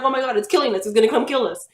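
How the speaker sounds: put-on little kid sure the doll is killing them; retold panic. Child thinking the killer doll attacks, mock panicked cry. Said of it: "I'm freaking out like".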